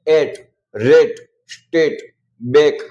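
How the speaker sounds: एट, रेट, स्टेट, बेक said with a slow, clear "ay" vowel; each word said alone with a pause after it; long a demo. Shown as a demonstration. A teacher drilling the छोटे ए sound. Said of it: "छोटे ए, ए की मात्रा है".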